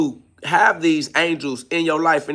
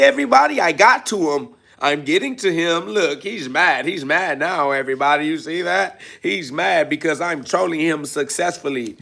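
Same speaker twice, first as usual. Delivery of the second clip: mock bragging troll; 2 semitones higher than usual. Streamer mocks the troll bragging to his audience, hammed-up glee. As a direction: show off like a kid craving attention.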